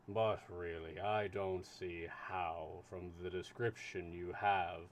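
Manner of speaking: lightly voiced slow, steady official; unhurried, measured consul.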